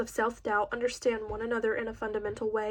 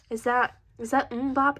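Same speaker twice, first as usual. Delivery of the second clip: slow, louder, disbelieving question; incredulous; 2 semitones higher, 4 dB louder than usual. A narrator's reading. Addie hearing Nate's ringtone, incredulous and slow. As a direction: ask like you can't believe your ears. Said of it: "incredulous laugh".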